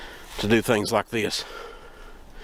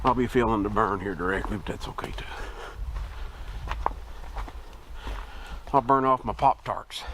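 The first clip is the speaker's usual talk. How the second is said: breathing hard while climbing; winded, talking between breaths; 3 dB quieter than usual. Real, not acted. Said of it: "Apologize if I'm breathing hard".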